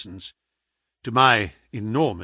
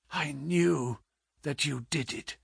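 very soft, feeble voice; weak accusation; 8 dB quieter than usual. Acted. Sick man confronts his visitor, feebly. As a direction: accuse him with failing strength.

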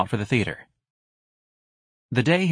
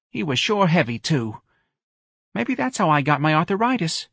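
high, plaintive mother's voice; complaining Mrs Riley; 7 semitones higher than usual. Acted. Mrs Riley tells friends her ailments, high and plaintive. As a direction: air your ailments to friends.

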